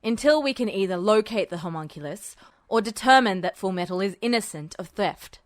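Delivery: a hint of a menacing general. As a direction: drop into a low menacing register. Voices Tanaka.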